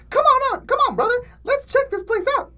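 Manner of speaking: put-on squeaky high kid voice; wrong take, high and squeaky; squeaky high cartoon voice. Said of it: "Oh, wait, no".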